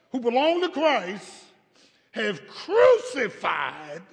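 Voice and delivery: slow, solemn scripture reading; preacher reading Bible verse to congregation. Acted. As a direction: read Galatians with weight.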